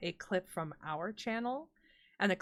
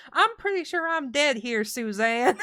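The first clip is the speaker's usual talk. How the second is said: mock deadpan; 6 semitones higher, 7 dB louder than usual. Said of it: "she just goes".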